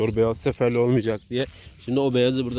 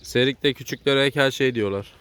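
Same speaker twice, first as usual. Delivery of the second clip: slow repeat; slower than usual. Real, not acted.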